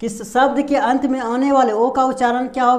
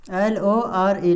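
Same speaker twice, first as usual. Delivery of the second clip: slow letter spelling; 3 semitones lower, much slower than usual. Shown as a demonstration. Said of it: "जैसे लोर".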